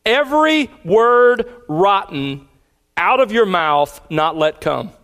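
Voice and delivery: weighty, deliberate stress on "Every word rotten"; emphatic word order. Shown as a demonstration. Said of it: "word order is for emphasis".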